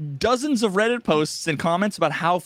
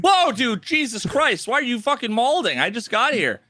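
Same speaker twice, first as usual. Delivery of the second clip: mock outburst; 7 semitones higher than usual. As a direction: burst out as if startled by someone's rage. Mock outburst answering the calm voice.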